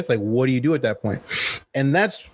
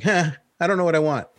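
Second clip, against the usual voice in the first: mock whiny woman; 5 semitones higher, faster than usual. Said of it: "and they're like".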